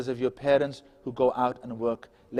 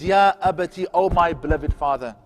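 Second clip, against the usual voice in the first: tender plea; 2 semitones higher, 5 dB louder than usual. Shown as a demonstration. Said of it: "How to speak to your parents".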